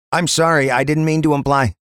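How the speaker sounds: high-pitched, apologetic officer; apologetic constable. Acted. Constable apologizing to the inspector, high apologetic voice. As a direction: backpedal to a superior, pitched well up.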